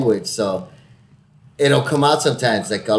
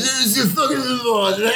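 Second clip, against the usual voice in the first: much higher, slurred drunken Irish impression; drunk Irish guy; 11 semitones higher than usual. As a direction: ham up an incoherent drunk Irishman. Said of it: "and his drunk".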